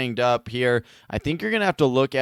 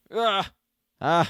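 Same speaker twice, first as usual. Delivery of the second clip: high, short groans; pained groan; 7 semitones higher than usual. Pretend. Reacting to a player's groin injury, pained groans. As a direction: groan in sympathetic pain.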